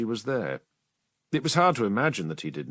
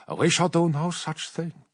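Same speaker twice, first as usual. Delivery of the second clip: firm refusal; 6 semitones higher than usual. Acted. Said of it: "said the witch".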